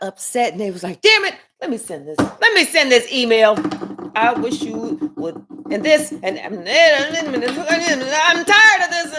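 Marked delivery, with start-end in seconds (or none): 1.0-3.5 angry outburst. Retold or imitated. Upset person firing off an email. 4.1-9.2 fed-up rant. Retold or imitated. Upset person sending angry message.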